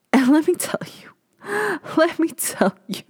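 high, whispery, laughing disbelief; scandalised half-whisper. Real, not acted. Podcaster about to judge the movie, scandalised half-whisper.

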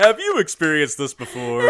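laughing mock pitchman; imitating infomercial voice. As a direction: copy the TV ad line while laughing. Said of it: "You sound like an infomercial right now".

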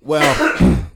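very high, loud drawn out well; high squeal. Pretend. Silly high voice continues.

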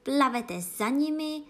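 loud, high shriek. Acted. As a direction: shriek the order. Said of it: "zaječel Gryfon".

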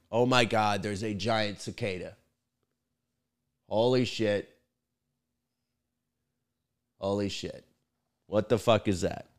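very soft, stunned aside; hushed alarm. Real, not acted. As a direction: let it out under your breath, eyes on the bug. Startled by giant cicada, off mic.

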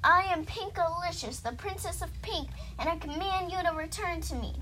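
high-pitched royal proclamation; princess's command. Acted. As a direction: declare your title, then command.

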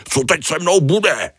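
high whiny wail of despair; a high wailing cry for help; wailing lament. Acted. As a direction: moan it like a doomed starfish. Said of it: "Bědoval".

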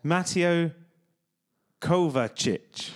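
Kovacic said slowly as KOH-va-chitch; demonstrating pronunciation. Shown as a demonstration. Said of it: "Is that how they pronounce it?".

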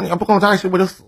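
高调模仿那年代男人的狠话; 拖腔学男人说要死要活; 模仿痴情男威胁. Retold or imitated. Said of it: "很多男的都愿意这个". (学当年男人的腔调，半开玩笑地威胁)

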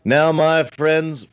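high, drawn-out New York preacher voice; New York priest accent. Retold or imitated. Priest opening a Lent conference, hammed-up New York accent. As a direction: imitate a New York priest, slow and ringing. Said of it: "with his, you know, uh, New York accent".

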